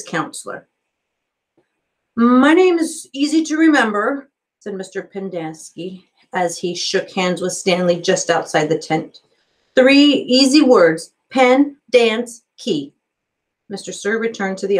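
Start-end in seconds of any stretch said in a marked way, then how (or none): 2.2-4.3 lightly raised friendly counselor voice; a hint of an eager, upbeat counselor; cheery counselor. A narrator's reading. Counselor greeting the new boy, lightly upbeat. 9.8-12.9 lightly raised friendly counselor voice; a hint of an eager, upbeat counselor; cheery counselor. A narrator's reading. Counselor greeting the new boy, lightly upbeat. Pendanski spelling his name.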